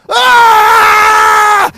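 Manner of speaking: sudden loud high shout of "Ah!"; playful yell. Real, not acted. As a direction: yell out loud to interrupt the call. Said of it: "it was a playful yell".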